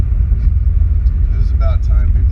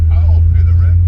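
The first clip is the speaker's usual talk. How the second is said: bold, louder hero line; heroic rescuer; 3 dB louder than usual. Acted. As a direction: announce it like a square-jawed hero. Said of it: "and a hero".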